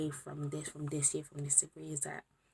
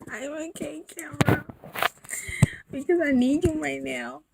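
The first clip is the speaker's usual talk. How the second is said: whisper; 9 semitones higher, 11 dB louder than usual. Real, not acted. Emotional vlog, whispering to camera.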